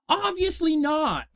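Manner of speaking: high, slow sarcastic obviously not. Pretend. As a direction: drip with mock sarcasm, slowly. Sarcastic self-answer.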